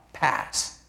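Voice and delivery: breathy whisper on Pass. Acted. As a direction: whisper it like a hushed prayer. Jesus asks the cup pass.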